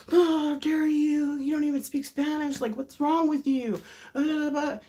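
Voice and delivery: hammed-up scolding in a high voice; mock angry. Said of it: "And then he got so mad".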